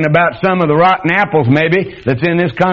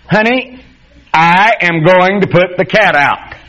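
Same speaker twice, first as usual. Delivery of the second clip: flat statement; 5 semitones higher, slower than usual. Pretend. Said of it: "you made a statement".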